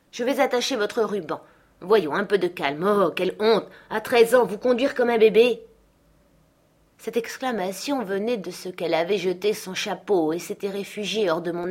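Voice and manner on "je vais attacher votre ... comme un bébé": gronder, un peu plus haut; Hélène fait honte à Catherine; gouvernante indignée. Acted. (indignation de gouvernante)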